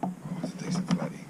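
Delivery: unvoiced, hushed and quick; fishing whisper. Real, not acted. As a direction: whisper it over the catch. Fish on, hushed excitement.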